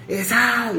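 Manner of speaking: imitar a un hombre que grita desde la calle; grito imitado. Retold or imitated. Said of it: "gritándome". (grito fingido y agudo)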